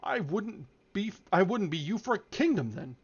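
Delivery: "I" and "kingdom" hit hard and high; emphatic declaration. A narrator's reading.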